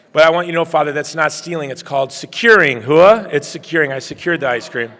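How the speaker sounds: joking loud defense to the priest about securing ice cream; playful call-out. Real, not acted.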